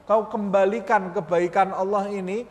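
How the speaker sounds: a preacher rebuking the soul; scolding own soul. Shown as a demonstration. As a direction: chide your own soul for its shame. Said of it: "sambil engkau berbicara".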